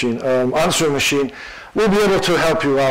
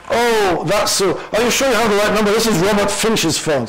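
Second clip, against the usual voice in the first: higher, nervous, rushed denial; mock panicked machine, pitched up; flustered machine; 6 semitones higher than usual. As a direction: bluff your way out in a panic. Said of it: "flowing with cold sweat".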